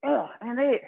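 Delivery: strained grunt on the last rep; grunting through the effort. Real, not acted. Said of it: "Sorry for all the grunting".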